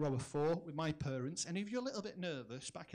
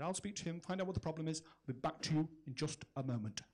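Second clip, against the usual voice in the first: cocky captain; 2 semitones lower than usual. Retold or imitated. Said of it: "very, very cocky".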